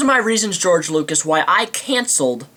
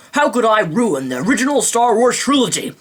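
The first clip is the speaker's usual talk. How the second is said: mock scheming Lucas; 4 semitones higher than usual.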